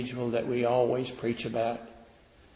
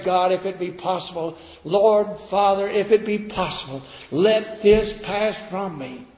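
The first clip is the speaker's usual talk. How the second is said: fervent prayer; 7 semitones higher, 6 dB louder than usual. Acted. Preacher booming Jesus' garden prayer to the congregation, loud. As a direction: cry the prayer out with full force.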